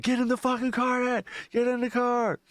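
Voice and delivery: high-pitched mock panic; retold panicked order. Son ordering dad away from the zombie, mock panic. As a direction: imitate an urgent, frantic command.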